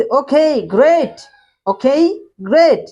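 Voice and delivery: high, loud and bright with excitement; eager friend agreeing; excited okay great. Acted. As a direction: cheer it out, really pleased. Andy's happy line in dialogue.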